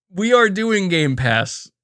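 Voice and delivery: cracking up mid-sentence, drawn out; laughing. Real, not acted. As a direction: push the words out slowly through real laughter. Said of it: "I'm just laughing".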